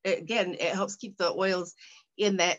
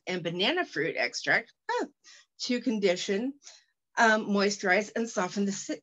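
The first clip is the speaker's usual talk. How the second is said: product description read. Shown as a demonstration. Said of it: "I'm doing a, infomercial".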